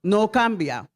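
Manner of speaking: slow, spaced phrase for the church; slow call to repeat. Shown as a demonstration. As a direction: say it slowly so all can repeat. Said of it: "Diga otra vez".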